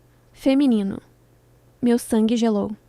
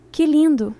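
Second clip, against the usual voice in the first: bitter sarcasm, a touch louder; 4 semitones higher, 4 dB louder than usual. Retold or imitated. Betrayed woman to her cheating boyfriend and friend, bitterly sarcastic. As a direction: spit it out with bitter irony. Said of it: "eu disse, amarga".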